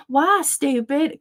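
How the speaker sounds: put-on high, slow questioning kid; imitated little boy. Mother quoting son answering back, high and cheeky. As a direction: mimic a child slowly testing the word. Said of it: "he kept on saying".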